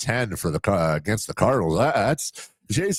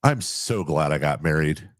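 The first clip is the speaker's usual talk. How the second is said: inner voice; 7 semitones lower than usual. Retold or imitated. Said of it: "your internal dialogue, you're like".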